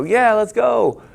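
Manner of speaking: loud, high shout of hype; whooping self-hype; pumped-up yell. Retold or imitated. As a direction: fire yourself up like at the race. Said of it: "so that I can go".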